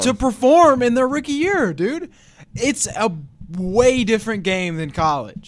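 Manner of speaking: serious voice. Pretend. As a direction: preach it like a stern coach. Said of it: "This is my serious voice".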